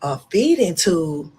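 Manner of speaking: slow, disbelieving question; mock-shocked "A feeding tube?"; stunned disbelief. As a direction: repeat it as if you can't believe it. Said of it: "So I'm like".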